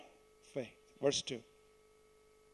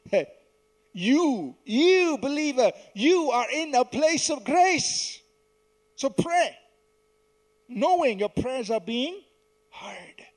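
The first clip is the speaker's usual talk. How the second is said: raised, insistent pulpit voice; emphatic preaching; 5 semitones higher, 5 dB louder than usual. Real, not acted. Preacher urging believers to pray from grace, emphatic preaching. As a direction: press it home to every believer. Exhorts congregation with force.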